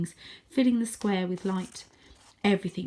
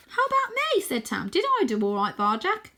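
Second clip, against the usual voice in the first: high, louder and eager; young cat Tam fishing for praise; 11 semitones higher, 5 dB louder than usual. Acted. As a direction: ask for praise hopefully.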